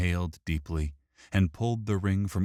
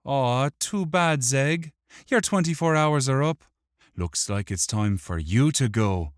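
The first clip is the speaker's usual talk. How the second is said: high, lively gloating; triumphant; 9 semitones higher, 5 dB louder than usual. A narrator's reading. Wick tells the imp to leave, triumphant. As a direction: crow lightly, pitched up and a little loud. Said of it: "with a small look of triumph".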